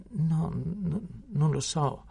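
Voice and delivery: put-on high, halting apprentice boy; frightened stammer. A narrator's reading. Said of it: "balbettò il garzone". (balbettio impaurito)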